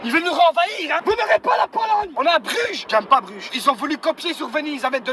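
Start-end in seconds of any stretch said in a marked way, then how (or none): 1.0-2.1 mock defiant shout. Driver shouting mock defiance at a German car. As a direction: declaim it like a hammy war cry.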